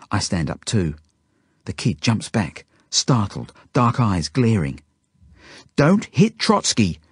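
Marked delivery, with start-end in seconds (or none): 5.7-7.0 put-on high, slow indignant child's yell. A narrator's reading. Zelda defending Trotsky from the kid, yelling. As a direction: yell it in protest, pitched right up. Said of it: "Zelda yells at the kid".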